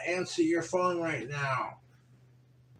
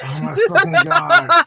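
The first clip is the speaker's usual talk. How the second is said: much higher, much louder shriek; exasperated scream; 11 semitones higher, 13 dB louder than usual. Real, not acted. Streamer screaming at the fans blowing up phone. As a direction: let it rip as a scream. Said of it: "Do it again".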